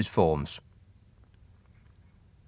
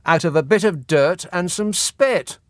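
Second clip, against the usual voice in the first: sneering posh minister; 5 semitones higher, slower than usual. Pretend. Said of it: "They could say something like".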